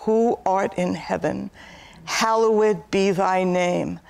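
prayer. Acted. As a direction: pray it word by word. Recites the Lord's Prayer.

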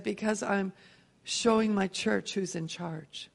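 gently, like a loving father; loving God voice. Retold or imitated. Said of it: "And he so lovingly said".

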